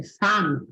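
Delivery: "fame" with a wide open A; open A pronunciation. Shown as a demonstration. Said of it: "aberto mesmo". ("fame" com A bem aberto)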